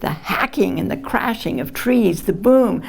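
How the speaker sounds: measured poetry reading with weighted phrases; poem reading. Acted. Poet reads a climate poem to an audience, measured recitation. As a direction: recite it in deliberate phrases, pausing at line breaks.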